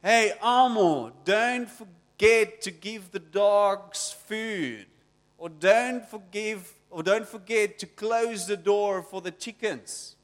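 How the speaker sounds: loud, slow mock yell from the doorway; mom's shout. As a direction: call out across the house like a mom. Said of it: "she screams at you".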